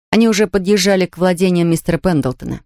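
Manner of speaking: ordinary delivery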